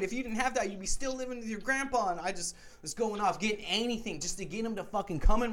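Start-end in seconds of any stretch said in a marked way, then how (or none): 0.0-2.1 louder, higher, rattled off fast; fast angry retold rant. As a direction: hammer him with reasons, rushing and loud. Retold shouting down the roommate.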